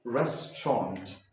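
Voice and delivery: restaurant said "REST-ront", two syllables; correct British way. Shown as a demonstration. Teacher models the correct restaurant. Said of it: "Repeat after me".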